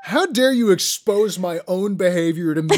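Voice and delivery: loud, laughing how-dare-you; hammed-up outraged patient; mock outrage laughing. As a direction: fake indignation through laughter.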